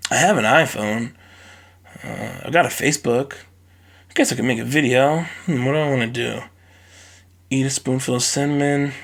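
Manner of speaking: put-on a bored kid dreaming up a dumb video; bored lazy kid. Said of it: "like, one day, like".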